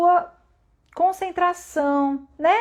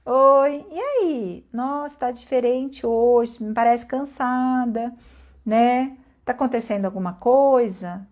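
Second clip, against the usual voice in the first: slow, gentle check-in; devagar, com cuidado; slower than usual. Acted. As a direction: ease into a careful, caring question. (devagar e com jeitinho, acolhendo)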